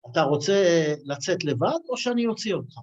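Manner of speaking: rattled off fast in Hebrew; fast Hebrew quote. Retold or imitated. Host rushing out the Kiddush question, rattled off fast. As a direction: fire the Hebrew line off quickly. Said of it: "so it says".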